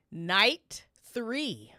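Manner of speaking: whispered announcement. Acted. Announcing the next night to chat in a whisper. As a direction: breathe the round name.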